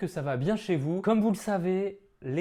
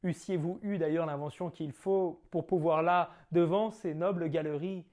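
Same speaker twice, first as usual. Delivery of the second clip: theatrical Cyrano declaiming; grand stage verse delivery; hammy stage actor; 3 semitones higher than usual. Acted. Performs Cyrano's nose tirade.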